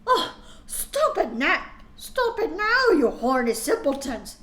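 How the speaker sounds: mock stern yell, high; playing McGonagall scolding, up high; shouted. Professor scolding students, mock shout. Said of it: "shouted Professor McGonagall".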